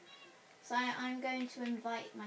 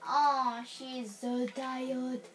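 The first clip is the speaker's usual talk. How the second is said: 1 cooing; 6 dB louder, much slower than usual. Real, not acted. Cooing over sleeping dog.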